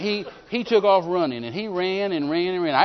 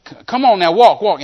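loud coaxing shout at the lame man; preacher shouting a paralyzed man up to walk; urging shout; 5 semitones higher, 11 dB louder than usual. Retold or imitated. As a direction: call him up onto his feet, loud.

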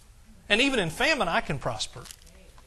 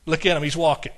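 delighted God; 3 semitones lower, faster than usual. Retold or imitated. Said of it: "God's up in heaven getting all the angels".

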